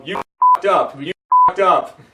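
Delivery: loud, drawn-out wrestling-fan chant; mock crowd yell. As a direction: chant it like heckling fans. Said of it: "you can be marks and yell".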